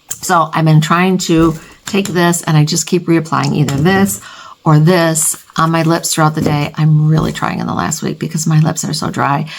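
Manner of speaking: blocked-nose nasal speech. Real, not acted. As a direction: talk through a stuffed nose. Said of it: "I sound nasally".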